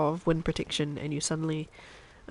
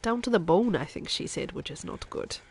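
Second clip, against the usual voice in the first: Chef Maria. Acted. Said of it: "I'm halfway through my accent redeem".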